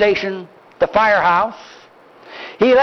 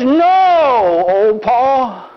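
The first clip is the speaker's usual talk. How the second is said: grandson pleading; 3 semitones higher, much slower than usual. Retold or imitated. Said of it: "He says".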